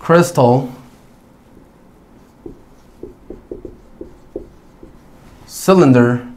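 crystal, cylinder with Y as a short "eh"; short E sound. Shown as a demonstration. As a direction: dictate crystal, cylinder singly, short lax first vowel. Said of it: "es un short E sound". (crystal, cylinder con "e" corta)

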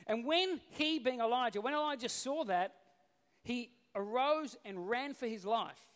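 loud, measured Bible reading; deliberate, projected public reading; scripture reading. Acted. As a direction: read the passage out to a congregation. Reads the Bible passage aloud.

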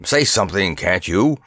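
usual speaking voice

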